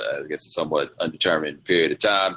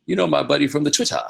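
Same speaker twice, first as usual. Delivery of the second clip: mock Trevor phrasing; 9 semitones higher than usual. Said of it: "just go tell him".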